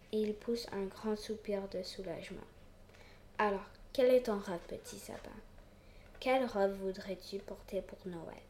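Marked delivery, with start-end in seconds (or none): 3.4-8.4 gentle. Acted. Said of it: "lui demande gentiment le vieil arbre".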